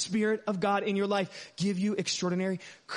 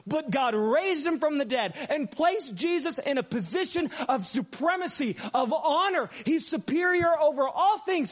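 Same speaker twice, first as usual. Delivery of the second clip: raised, slower preacher's reading; preaching scripture; 3 semitones higher, slower than usual. Acted. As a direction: proclaim the verses with fire. Apostles' message, preaching.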